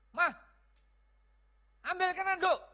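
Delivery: loud, high demanding yell; wrong tone. Shown as a demonstration. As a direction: order the wife sharply at a shout. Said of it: "Karena nadanya sudah salah".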